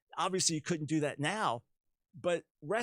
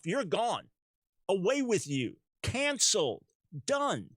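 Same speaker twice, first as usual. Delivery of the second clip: mock dismissal; 6 semitones higher, 4 dB louder, slower than usual. Mocking cancel culture's verdict.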